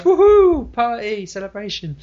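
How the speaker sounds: loud high whoop that fades; mock party whoop. Chun-Li celebrating after avenging dad, whooping. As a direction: cheer like a party girl then trail off. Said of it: "she just sort of goes".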